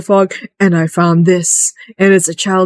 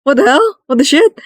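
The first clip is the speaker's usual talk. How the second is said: baffled outburst; 8 semitones higher than usual. Retold or imitated. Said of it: "And we're like".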